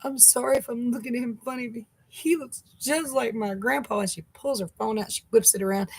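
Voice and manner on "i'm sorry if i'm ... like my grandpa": put-on teary cashier girl. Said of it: "she's like".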